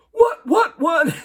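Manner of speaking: floored teammate crying out in shock; shocked dazed cries. Retold or imitated. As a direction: gasp it out, stunned and confused. Knocked-down player stunned.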